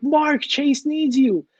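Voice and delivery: slow, drawn-out wake-up call; slow urging. Retold or imitated. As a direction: spell it out slowly to a sleepy friend. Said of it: "And I'm like".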